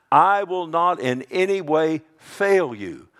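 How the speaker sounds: slow, loud, high proclamation; emphatic promise. Acted. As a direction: drive every word home, slowly. Emphatic quote of God's promise.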